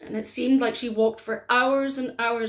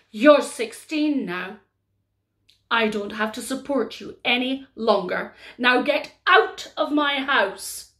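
cruel stepmother; 4 dB louder than usual. Acted. Stepmother throwing Mary out.

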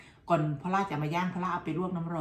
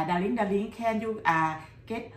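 higher, louder, slow mock husband asking; imitating her husband; 4 semitones higher, 5 dB louder, much slower than usual. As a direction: call out slowly like a husband asking his darling. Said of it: "เขาบอก". (ล้อเลียนเสียงสามีเรียกที่รัก เสียงสูงดังช้า)

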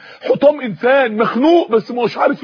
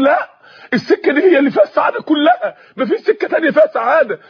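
higher-pitched, mildly shouted insistence; an imitated yell in the ears, pitched up; screaming inner voice; 6 semitones higher than usual. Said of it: "لقيت الصوت بيصرخ في وداني الاتنين". (صرخة تمثيلية خفيفة بنبرة عالية)

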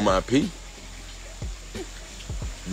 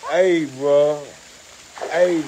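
ordinary talk

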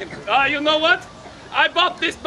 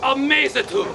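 grandiose flea circus showman. Acted. Showman announcing a dive.

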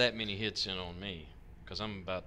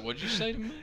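indignant quote; 10 semitones higher, much faster than usual. Retold or imitated. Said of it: "I was like".

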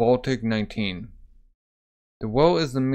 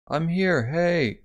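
higher-pitched answering hail; calling back; 5 semitones higher, much slower than usual. Retold or imitated. Answering Eric from here, acted calling out.

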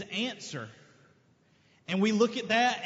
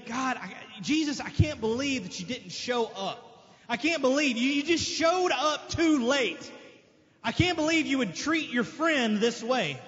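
imitated grieved reproach; 2 semitones higher than usual. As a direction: reproach him like a hurt sister. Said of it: "the other one was just grieved".

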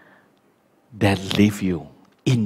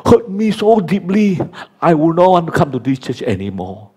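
offended churchgoer; 6 semitones higher, 3 dB louder than usual. Retold or imitated. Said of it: "or your pastor".

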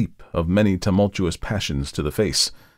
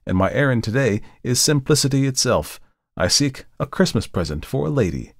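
higher-pitched gentleman, explaining himself; raised voice of a customer insisting on his purpose; earnest customer; 6 semitones higher than usual. Acted. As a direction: correct the shopkeeper, then state your errand fluently. Voices Markheim pleading his errand.

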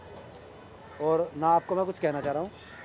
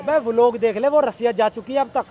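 angry insistence; 4 semitones higher, 5 dB louder than usual. Acted. Boyfriend denies cheating, heated quarrel.

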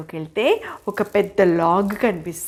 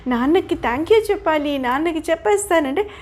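put-on much higher excited kid voice; eager child; 7 semitones higher than usual. Pinocchio eager to thank his sleeping father, high. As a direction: rush to go thank Dad.

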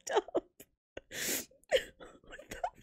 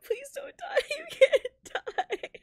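laugh-crying; 4 semitones higher than usual. Real, not acted. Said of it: "I'm crying".

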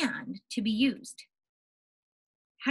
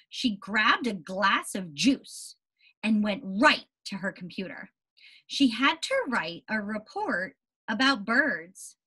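put-on slow, clear read-aloud for children; story reading. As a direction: read the picture book to the class. Reads picture book to class.

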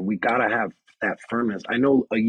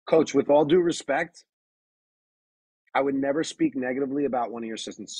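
firm respectful reply; 3 semitones higher than usual. Shown as a demonstration. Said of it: "let me just backtrack".

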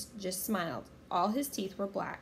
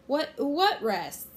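put-on puzzled girl; 6 semitones higher, 6 dB louder, much slower than usual. A narrator's reading. Girl answers pirate puzzled.

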